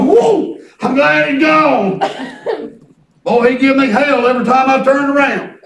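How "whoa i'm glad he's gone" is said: high startled whoa, then slow; lightly voiced Satan, squealing whoa; a hint of a relieved devil; mock Satan relief. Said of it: "he's gonna go".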